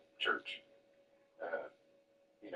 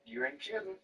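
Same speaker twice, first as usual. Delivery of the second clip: high quote; 13 semitones higher than usual. Retold or imitated. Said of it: "She goes".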